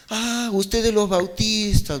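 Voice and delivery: a light sneering imitation of the critics; mocking quote. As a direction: tease them, mildly scornful. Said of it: "burlándose dicen".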